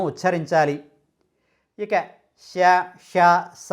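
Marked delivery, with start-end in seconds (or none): 2.4-3.7 శ, ష, స said as three distinct sibilants; careful sibilant demonstration. Shown as a demonstration. Teacher warns to take care with these letters, శ, ష, స distinctly articulated. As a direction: separate palatal శ, retroflex ష and dental స. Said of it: "అక్షరాలను పలికేటప్పుడు కూడా చాలా జాగ్రత్తగా".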